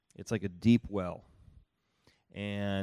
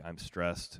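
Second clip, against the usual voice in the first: 'stressed' said lower and softer, worn out; low glum 'stressed'; 5 semitones lower, 5 dB quieter than usual. Retold or imitated. Tired spouse naming stress as the usual answer, low and soft. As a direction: let 'I'm stressed.' sink low and soft.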